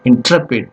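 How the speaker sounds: "Intrepid" said in-TREP-id; stress on second syllable. Shown as a demonstration. Teacher repeats how English people speak, stress on second syllable. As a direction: punch TREP, keep IN short in "Intrepid". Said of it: "stress falls on the second syllable".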